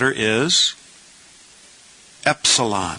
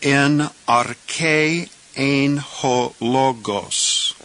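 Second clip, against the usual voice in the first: "ein ho logos" drawn out very slowly after "En arche"; slow careful reading; 3 semitones higher, much slower than usual. Shown as a demonstration. Teacher reading the clause to beginners, very slow. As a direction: read the Greek clause slowly for learners. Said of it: "Now let's say the whole clause".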